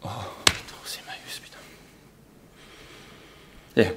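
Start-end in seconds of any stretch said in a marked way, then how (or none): 0.0-1.6 stunned, breath-soft mourning; hushed lament. Acted. Man grieving his boots given to charity, hushed lament. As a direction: sink into a near-whispered curse.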